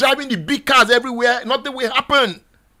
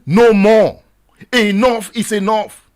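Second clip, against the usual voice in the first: loud NO MORE, then slower enough is enough; protest shout; 4 dB louder, slower than usual. Shown as a demonstration. Radio host leading listeners, shouted protest chant. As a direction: cry it out as a rallying call. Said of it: "Begin to scream".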